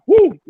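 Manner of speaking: high, loud woo fighting tears; teary "woo". Real, not acted. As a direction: let out a sudden high whoop, welling up. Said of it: "I'm getting teary-eyed".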